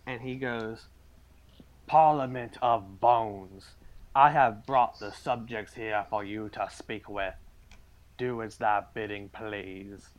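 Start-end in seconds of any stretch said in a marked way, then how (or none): 1.9-10.1 formal servant voice. Acted. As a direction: announce it to the gods. GM voices Abernathy addressing gods.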